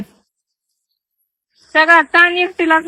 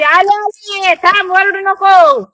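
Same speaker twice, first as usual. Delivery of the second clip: high, slow call to hush the hungry goats; 7 semitones higher, much slower than usual. Real, not acted. Woman calls out to her bleating goats, high and drawn out. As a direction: sing out coming, coming, then tell them to hush.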